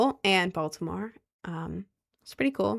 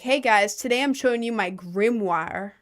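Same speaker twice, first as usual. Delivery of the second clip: mock streamer intro. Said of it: "Imagine I got on stream and I'm like".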